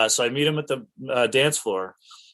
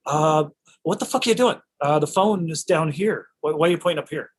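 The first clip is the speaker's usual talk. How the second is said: higher-pitched, incredulous imitation of a director; mock exasperated questioning; 5 semitones higher than usual. Director challenging actor on where he points, mock exasperated.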